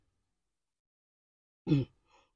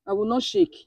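quiet, tearful self-talk, softer; choking back tears; 4 semitones lower, 12 dB quieter, much faster than usual. Real, not acted. Woman fighting her tears while her husband comforts her. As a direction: tell yourself to stop crying, through tears. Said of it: "If you keep crying like this".

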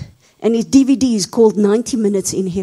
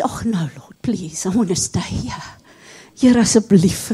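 pleading whisper; 3 semitones lower, 3 dB quieter than usual. Acted. Begging to stay.

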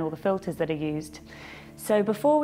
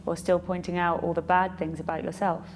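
calm guided-meditation delivery with long pauses; unhurried meditation guide, pausing after each thought; 4 dB quieter than usual. Acted. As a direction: lead them gently through a reflection, leaving space between phrases.

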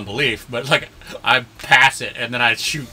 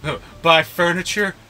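higher-pitched, exasperated pleading rant; mock indignant rant; 4 semitones higher, 3 dB louder than usual. Acted rant after "him like.

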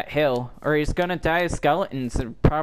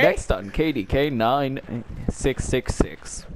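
lightly voiced creepy DJ; creepy radio host; 3 semitones lower than usual. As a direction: announce it like a mock radio host. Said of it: "like a creepy radio host".

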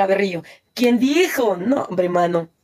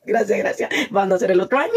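laughing; faster than usual. Real, not acted. Laughing while thanking.

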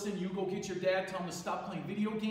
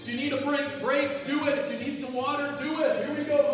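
surfer cousin; 2 semitones higher than usual. Acted. Gym teacher as his surfer cousin leading kids, lightly laid-back surfer voice. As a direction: play the chill Hawaiian surfer cousin, upbeat. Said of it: "I have a cousin staying with me".

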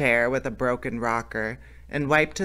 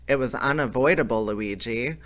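light. Acted. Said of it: "responded the thin man lightly".

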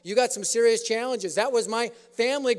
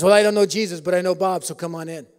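gruff tough guy; 4 semitones lower, 4 dB louder than usual. Retold or imitated. Uncle Jack sizes up the preacher, loud and gruff. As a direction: lay it on like a tattooed thug.

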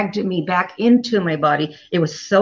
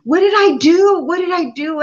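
high, pleading cry to God; begging God in retold panic, pitched up; desperate cry for help; 8 semitones higher, 3 dB louder, slower than usual. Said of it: "I started to cry out to God and said".

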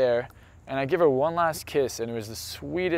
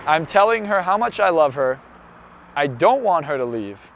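intense retelling; 2 semitones higher, 5 dB louder than usual. Real, not acted. Emotional airport farewell retold.

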